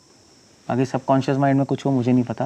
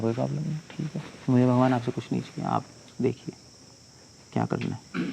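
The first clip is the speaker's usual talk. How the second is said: quiet surrender; 8 dB quieter than usual. Acted. Prahlad telling God he wants nothing, quietly resigned. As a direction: hand it over to God softly, without protest.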